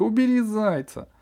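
high, loud command; yelling order. A narrator's reading. Dentist yells at nurse to take the toy. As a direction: snap out the order in alarm. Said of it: "заорала врачиха".

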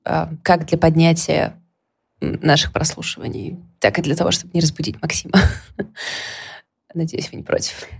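soft, languid sultry voice; томный голос. Real, not acted. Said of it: "Я буду говорить немного томным голосом". (томным голосом, тихо и лениво)

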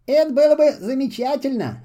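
overjoyed at the idea; Half-Boot thrilled at the plan; delighted. A narrator's reading. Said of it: "обрадовался Полботинка".

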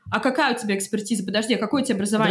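rapid, pushy interrogation; challenging questioning. Retold or imitated. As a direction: demand credentials fast. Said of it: "пытаются припираться".

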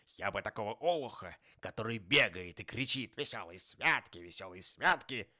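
forceful outraged tirade with loud bursts; indignant. A narrator's reading. Scrooge wishing punishment on merrymakers, indignant. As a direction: spit out the grisly threats in indignation. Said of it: "негодующе продолжал Скрудж".

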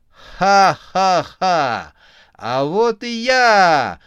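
high, loud, slow maniac cackle; crazed clown yell. A narrator's reading. Chainsaw clown bursting in, screaming. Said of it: "заорала клоунесса".

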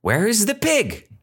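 high, playful acted question; villagers misquoted. Teacher jokingly misquoting villagers to test students, high question. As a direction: ask it high, mock-earnest. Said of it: "and they asked".

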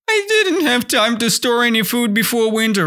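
high, fast, almost-crying whine; whining. Shown as a demonstration. Grasshopper excuses himself to the ants, whining. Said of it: "The grasshopper whined".

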